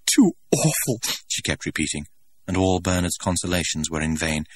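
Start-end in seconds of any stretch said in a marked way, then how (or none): 0.0-1.0 high, tearful wail, louder; sobbing. A narrator's reading. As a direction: wail it out through tears. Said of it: "Lenina was still sobbing".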